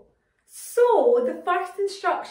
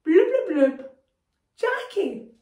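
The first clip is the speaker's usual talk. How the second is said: loud blubs and a higher name; shouting underwater; 3 semitones higher, 5 dB louder than usual. Shown as a demonstration. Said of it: "everyone try that".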